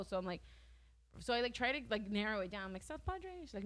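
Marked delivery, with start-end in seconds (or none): 2.8-3.3 unsure question. Retold or imitated.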